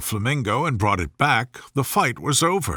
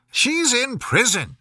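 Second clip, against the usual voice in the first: higher, slow, haughty queen voice; imperious Queen; 10 semitones higher than usual. A narrator's reading. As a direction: pronounce it as a royal verdict. The Queen answers.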